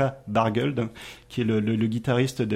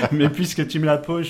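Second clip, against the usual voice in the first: laughing; 3 semitones higher than usual. Real, not acted. Still laughing after question.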